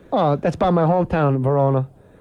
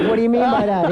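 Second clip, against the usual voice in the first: nervous Buddy voice; 4 semitones higher, faster than usual. Retold or imitated. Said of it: "He goes".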